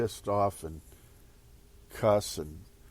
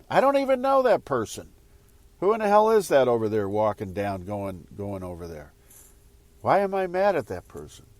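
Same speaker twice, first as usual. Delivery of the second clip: exasperated inner rant; 2 semitones higher, 6 dB louder, faster than usual. Retold or imitated. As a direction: rant at yourself, fed up and baffled. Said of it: "the resulting thought".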